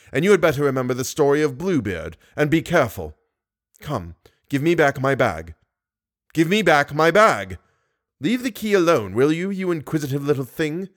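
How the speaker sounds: a touch of menace, rising to annoyance; menacing monster. Acted. Monster warns the inquisitive girl, menacing. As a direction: scold her as a lightly voiced monster. Voices the monster scolding Christine.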